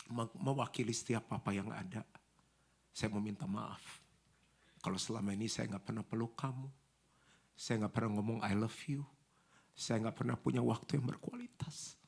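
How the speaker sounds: soft, subdued, halting apology; quiet heartfelt retold confession; sincere apology. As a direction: apologise gently, leaving pauses between phrases. Retold apology on behalf of fathers.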